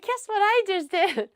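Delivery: high, drawn-out imitation of glee; happy and proud. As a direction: mimic him slowly teasing out his big news. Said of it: "He was so happy about it".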